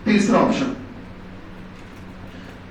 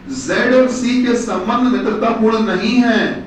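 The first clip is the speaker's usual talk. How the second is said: dictating; slower than usual. Shown as a demonstration. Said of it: "number दो लिखो बेटा".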